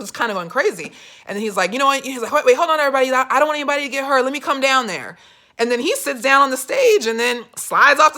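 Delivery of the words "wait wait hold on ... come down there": louder, higher, hurried crowd call. Retold or imitated. Candidate tells everybody to hold on, raised voice. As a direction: imitate someone urgently holding everyone back. Acting Joe calming the crowd.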